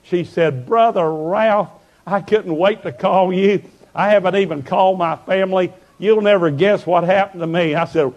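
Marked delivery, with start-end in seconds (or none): 0.7-7.7 excited, happy. Retold or imitated. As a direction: imitate a woman bursting with good news. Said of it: "What are you so excited about".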